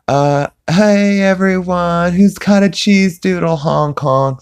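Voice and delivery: high, goofy dog voice; squeaky cartoon dog begging; silly clown. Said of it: "he's like".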